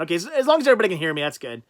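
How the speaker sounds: talking through a cloth mask; muffled through mask. Real, not acted. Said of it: "I sound slightly muffled".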